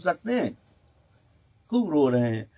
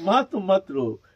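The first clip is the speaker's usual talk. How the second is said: higher-pitched imitation of a weeping child; mock-tearful plea; 4 semitones higher than usual. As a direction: plead through pretend tears. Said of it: "रो रो करके".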